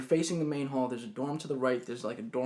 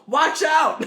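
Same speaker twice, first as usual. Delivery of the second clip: high, loud yelled warning; mock scream; 13 semitones higher, 10 dB louder than usual. Girl alarmed by his hand going down, high mock scream. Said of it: "Like, she just screamed".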